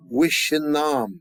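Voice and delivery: slow, careful "Wishin nam", split by syllable; syllable drill. Shown as a demonstration. Teacher models the syllables for the class to repeat. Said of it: "everyone say".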